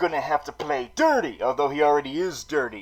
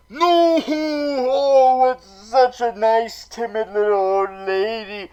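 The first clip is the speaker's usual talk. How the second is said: mock grief; 3 semitones higher than usual. Mock grief over dead mother.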